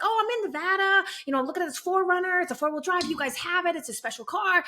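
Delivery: caller's voice. Retold or imitated. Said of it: "they were like".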